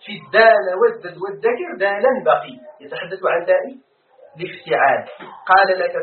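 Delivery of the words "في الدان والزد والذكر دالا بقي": in الدان والزد والذكر دالا بقي each word set apart; reciting verse again. Shown as a demonstration. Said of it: "ذكر ابن مالك". (إنشاد بيت ابن مالك ببطء)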